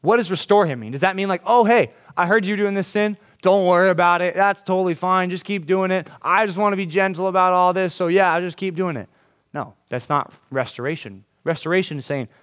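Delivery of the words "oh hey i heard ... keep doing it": higher, breezy, overly chill tone; mock permissive friend. Preacher parodying a friend excusing sin, breezy mock tone. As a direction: shrug off the sin, hammed-up. Mocking a falsely gentle friend.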